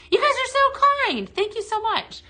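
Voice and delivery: very high-pitched, touched gratitude; gushing thanks. Real, not acted. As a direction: coo your thanks way up high. Gushing thanks to viewers for follows.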